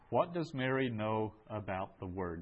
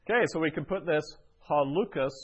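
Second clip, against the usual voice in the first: brightened up; 6 semitones higher, 9 dB louder, faster than usual. Real, not acted. Teacher lifts voice excitedly.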